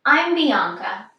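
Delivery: normal talking voice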